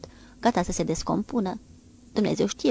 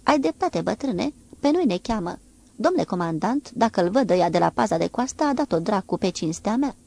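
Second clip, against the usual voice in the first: exclaiming; 4 dB louder than usual. Acted. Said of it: "timonierul exclamă".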